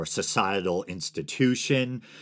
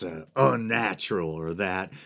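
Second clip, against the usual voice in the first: bad Southern accent. Podcaster mocking religious bigots, lightly in a bad Southern accent. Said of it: "straight to my bad Southern accent".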